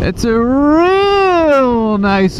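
slow, high, drawn-out grand voice; mock dramatic narrator. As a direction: stretch it like a trailer voice.

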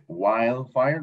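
"Wildfire" with the D left silent. Shown as a demonstration. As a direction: say "Wildfire" as wile-fire, no D sound. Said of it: "No suena la D".

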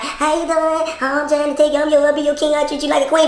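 put-on wooing patter; mock sweet-talk. Wife mimics men courting before they change, mock-sweet. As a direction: imitate a nice suitor. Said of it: "Y'all be all nice before".

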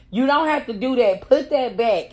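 mock guard telling her to stop; guard's firm order. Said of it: "she was like".

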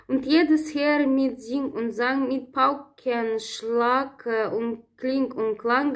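measured poem reading with dramatic pauses; ballad recitation. Acted. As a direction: read the ballad aloud like a recital. Recites German ballad stanzas.

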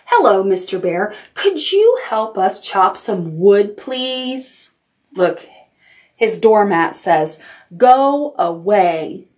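storytime read-aloud, lightly voiced; reading to children. Librarian reading a bear story to children, storytime voice. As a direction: read it out to little listeners. Reads picture book to children.

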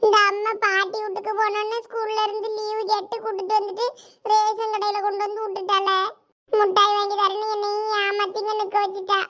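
put-on child sulking to self about mother; grumbling child. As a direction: complain like a kid tricked out of sweets.

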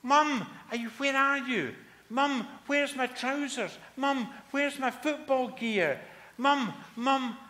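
put-on high, loud boy's shout through the house; yelling for mum. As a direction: call for mum in a frantic rush. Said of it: "and he yelled".

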